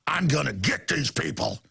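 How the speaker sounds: low, smug, taunting official voice; imitating a smug official gloating; mocking smug official. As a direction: taunt him like a smug bureaucrat. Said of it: "like going".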